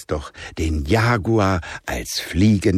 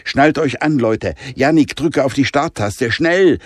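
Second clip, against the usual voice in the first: higher, sharp urgent orders; hissed command; 6 semitones higher, 4 dB louder than usual. Acted. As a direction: snap at Jannik to start the car. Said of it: "fauchte Jonah". (Jonah faucht Jannik an, er soll starten)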